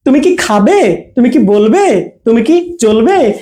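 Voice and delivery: "তুমি কি" together, drawn swing on each verb; short "কি", no gap after "তুমি"; quick attached কি. Shown as a demonstration. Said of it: "সেগুলো দ্রুত". ("তুমি কি" একসাথে, হ্যাঁ-না প্রশ্ন)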